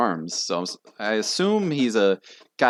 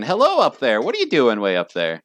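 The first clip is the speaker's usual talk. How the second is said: calling up; 2 semitones higher, 5 dB louder than usual. Acted. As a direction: call up to someone far above. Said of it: "and he says to Cerulean".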